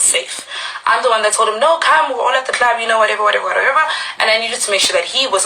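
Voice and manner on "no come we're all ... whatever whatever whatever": retold coaxing. Retold coaxing of her brother.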